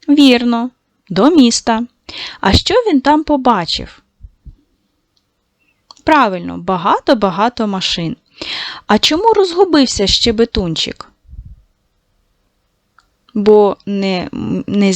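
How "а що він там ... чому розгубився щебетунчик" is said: hushed question. Acted. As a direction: lean in and ask in a near-whisper. Teacher questioning children softly. (тихо, майже пошепки питає дітей)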